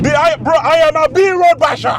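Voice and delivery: high, loud boast; hyped shout. Real, not acted. Driver hyping himself up on the B road, shouting. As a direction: shout it out proudly.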